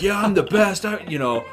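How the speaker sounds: high, loud bragging contestant voice; mock the boastful reality-show contestant; cocky contestant. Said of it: "people are like".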